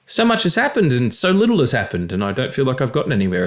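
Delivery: high mock panic, "Fuck, it's June"; imitating a stressed person; panicked everyman. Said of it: "Everybody looks back and goes".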